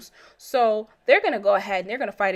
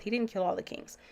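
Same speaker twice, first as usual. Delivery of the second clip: 1 softer repeat; 6 dB quieter than usual. Shown as a demonstration. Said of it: "Now, he didn't kill all the kings".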